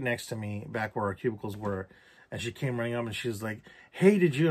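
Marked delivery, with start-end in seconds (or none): 3.9-4.5 higher, louder retold call to a friend; imitating a friend calling out; urgent hail. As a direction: rush up with an eager question.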